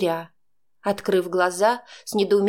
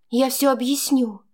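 plain reading voice

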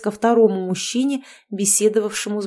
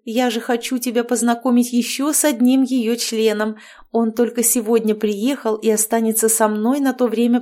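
lightly raised, chatty witch mother; bubbly overbearing mother-in-law chattering; cheerful witch; 2 semitones higher than usual. Acted. Witch Marianna voiced by narrator. (ведьма щебечет слегка выше обычного)

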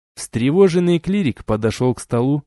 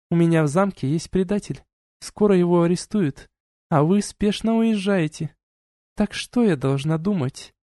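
duchess voiced higher, cool and lecturing; stern duchess; 6 semitones higher than usual. A narrator's reading. Duchess reproaching the couple, cool and lecturing. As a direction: scold them like a haughty duchess.

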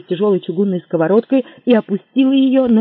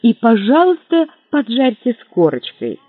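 eager; 5 semitones higher, 5 dB louder than usual. Acted. Eager request continues.

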